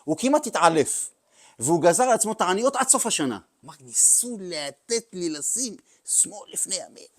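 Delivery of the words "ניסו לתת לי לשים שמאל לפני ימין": hushed dismay. Retold or imitated. The rebbe quoted, stunned.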